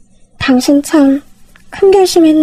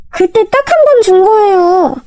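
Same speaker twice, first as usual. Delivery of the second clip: higher, slow, half-sobbing complaint; tearful sister-in-law; 7 semitones higher than usual. Acted. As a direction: whimper it out in self-pity.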